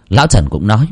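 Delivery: usual speaking voice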